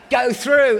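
triumphant. Real, not acted. Preacher reliving easy passport control, triumphant call. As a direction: burst out with it like a victory. Breezing through immigration, relieved.

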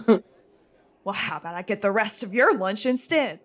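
a loud, sneering Well; bully's taunt. Acted. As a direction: taunt him like a school bully. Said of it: "He says".

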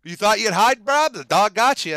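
high, loud surfer-bro swagger; Dog the Bounty Hunter voice. Retold or imitated. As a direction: call out like a cocky bounty hunter. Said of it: "he comes out of nowhere going like".

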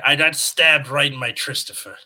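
lightly voiced old man; a hint of a creaky old man. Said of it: "you gotta do it like the old man".

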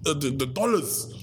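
high, urgent pleading. Retold or imitated. To the factory owner about the money, high urgent pleading.

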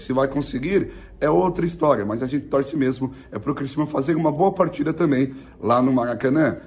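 rough, hoarse speaking voice; talking through a hoarse throat. Real, not acted. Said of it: "minha voz tá rouca aqui".

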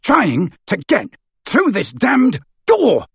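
high, slow, angry shout. Acted. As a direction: spit it out in frustration. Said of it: "shouted Amycus".

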